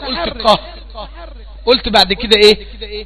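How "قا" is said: "قا" released as qaf with an open a; voweled qaf. Shown as a demonstration. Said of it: "وبعدين قمت قايل المتحرك". ("قا" قاف متحركة بالفتح)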